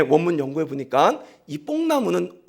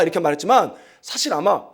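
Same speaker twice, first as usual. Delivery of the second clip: usual speaking voice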